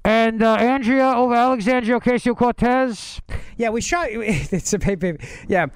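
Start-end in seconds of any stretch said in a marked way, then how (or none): 0.0-3.2 higher-pitched comic politician seducer; mock-suave insistence; Sexy Bernie. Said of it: "Sexy Bernie".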